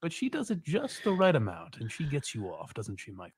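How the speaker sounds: creepy fake therapist, fading very soft; sleazy murmur of a mock shrink. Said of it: "the most disgusting therapist voice".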